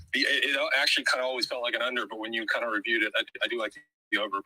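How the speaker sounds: breathless, rushed talking; out of breath. Real, not acted. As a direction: talk while catching your breath. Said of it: "so let me catch my breath".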